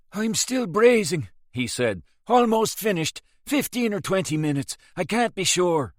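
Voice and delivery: put-on tired old mechanic; old engineer O'Hara. A narrator's reading. O'Hara calling up from the engine room, lightly voiced.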